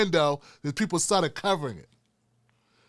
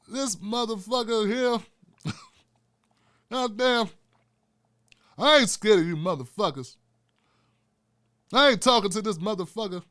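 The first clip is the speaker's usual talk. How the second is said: Bernie Mac impression; 3 semitones higher than usual. Bernie Mac dismissing Tim, lightly voiced. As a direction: stretch it out with disdain. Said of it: "Then Bernie Mac popped in".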